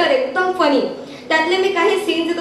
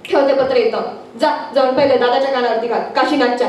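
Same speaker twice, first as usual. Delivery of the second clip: lower, mildly hurried father's voice; commanding father; 5 semitones lower, faster than usual. Acted. Father sending son with news, low brisk orders. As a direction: send the boy off on an errand.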